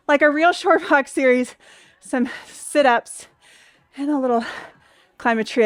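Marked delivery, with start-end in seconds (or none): 2.0-5.6 panting between words; winded after the step ups; out of breath. Real, not acted. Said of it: "I can barely talk, I'm out of breath".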